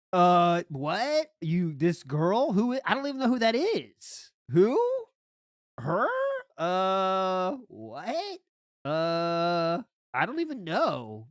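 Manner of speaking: stammering, fumbling denial full of uhs; mock flustered denial. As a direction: play caught out and stalling. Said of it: "That's how he sounds".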